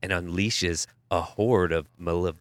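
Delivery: slow, low movie trailer narrator; movie announcer voice. Pretend. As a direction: sell it like a film trailer. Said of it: "I want your best movie announcer voice".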